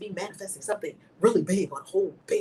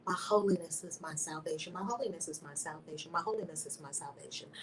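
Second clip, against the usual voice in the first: repeated mantra; 3 semitones lower, 6 dB quieter than usual. Shown as a demonstration. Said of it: "I said it thousands of times".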